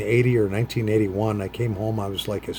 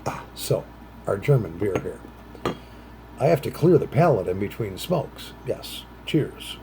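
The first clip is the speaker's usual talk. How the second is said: normal talking voice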